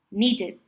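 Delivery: "needed" with a clear "id" ending; two syllables in "needed", ending in id. Shown as a demonstration. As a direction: sound the vowel before the final D in "needed". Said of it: "you pronounce it like id".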